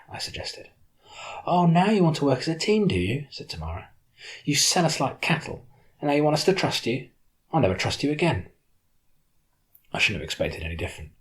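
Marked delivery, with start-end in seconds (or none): 1.5-8.5 raised, bitter reproach at the betrayer; angry accusation. Acted. Tamara lashes out at the narrator who sold them, angry.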